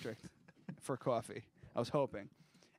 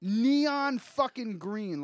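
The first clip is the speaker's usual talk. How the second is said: laughing; 6 semitones higher, 5 dB louder, much slower than usual. Real, not acted. Laughing disgust at puke.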